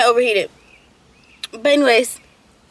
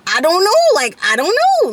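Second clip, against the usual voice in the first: panicked crying retold; 9 semitones higher, 3 dB louder than usual. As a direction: re-enact a tearful panic, pitched up and stretching "know". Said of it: "I was shaking and I was crying".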